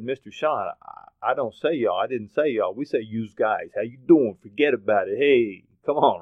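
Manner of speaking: imitated East Coast kid protesting; East Coast accent. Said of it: "coming out of an East Coast accent".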